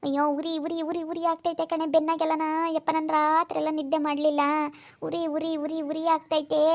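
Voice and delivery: mild moaning complaint of burning; pained whining. Acted. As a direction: whine it out, stung by burning skin. Acted complaint of burning back. (ಉರಿಯಿಂದ ಗೋಳಾಡುತ್ತಾ)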